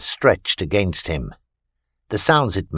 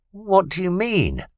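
frightened alien; 10 semitones higher than usual. A narrator's reading. Alien Vita asks Christopher what he means, high frightened. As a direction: ask in rising fear.

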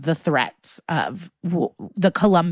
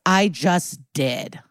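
badass comeback; much slower than usual. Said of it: "badass response".

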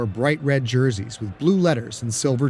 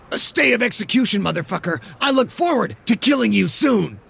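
much higher, gleeful threatening shout; menacing threat; 8 semitones higher than usual. Acted. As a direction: promise him violence, grinning. Tweedy threatens the rival.

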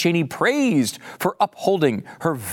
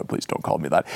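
much lower and softer, very deep voice; Dick Cheney voice; 13 semitones lower, 6 dB quieter, faster than usual. Retold or imitated. Cheney telling the time traveler not to call him Dick, very deep. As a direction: drop the voice to the floor and ask gravely. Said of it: "He'd say it in a very deep voice like this".

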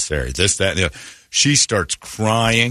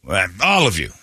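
lightly acted academy announcement, higher pitched; mock police instructor; 6 semitones higher than usual. Police department briefing all new recruits, lightly mocked instructor. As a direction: address recruits in mild mock-official style. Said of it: "Phoenix Police Department's like".

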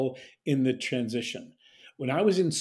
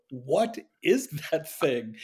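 baffled; slower than usual. Retold or imitated. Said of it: "are gonna go".

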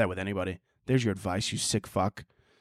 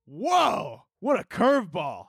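surprised; 7 semitones higher, slower than usual. Real, not acted. Reacting to trucker news.

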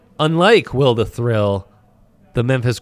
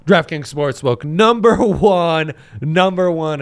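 hype announcer; 5 semitones higher, 3 dB louder, slower than usual. Acted. Hyped sponsor shout.

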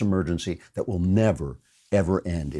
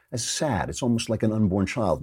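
ordinary talk, nothing marked

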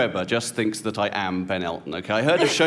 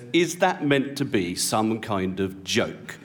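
slow, lower, measured mock disapproval; icy indignation; 4 semitones lower, slower than usual. Offended wife to the man introducing her, slow icy challenge. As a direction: imitate an offended wife, spacing out the words. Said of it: "she looks absolute daggers at me".

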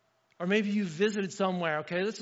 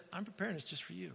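hushed voice of God; 12 dB quieter, faster than usual. Acted. God's quoted promise, hushed.

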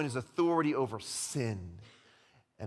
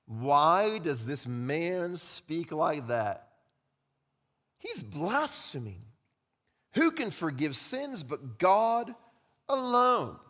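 scribes' thoughts; much slower than usual. Pretend. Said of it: "the thoughts of the scribes".

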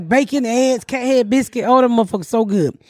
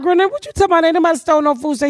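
higher, fast protest of innocence; a higher, rushed kid voice denying everything; pleading kids; 5 semitones higher, much faster than usual. Retold or imitated. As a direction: kids insisting they didn't take it.

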